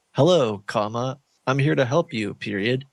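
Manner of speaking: reading out every comma and period; pronounce the punctuation. Shown as a demonstration. YouTuber demoing for the AI bot, naming each punctuation mark. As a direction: spell out the punctuation aloud as words. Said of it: "Say them out loud, like".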